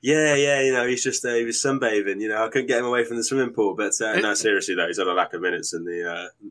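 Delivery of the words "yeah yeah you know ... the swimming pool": lightly voiced football manager impression; hint of a manager casually explaining himself to the press; Frank Lampard. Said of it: "That was a great impression".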